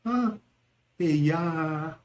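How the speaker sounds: drawn-out sorrowful exclamation; pity. Shown as a demonstration. Reacting to grandmother's death, pitying. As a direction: lament gently, holding the last vowel. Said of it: "pity, sadness".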